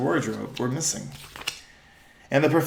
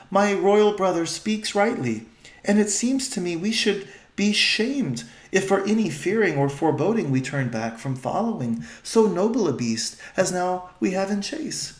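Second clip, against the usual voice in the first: put-on higher, stately young queen; regal old-fashioned speech; 6 semitones higher than usual. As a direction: agree nobly with your brother. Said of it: "their voice has changed".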